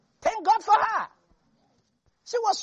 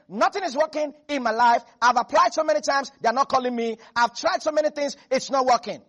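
complaining Christian; 5 dB louder than usual. Retold or imitated. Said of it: "That's like you saying".

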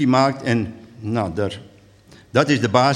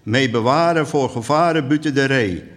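measured, lilting poem reading; unhurried verse delivery; poem recital. Acted. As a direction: recite it line by line with deliberate pauses.

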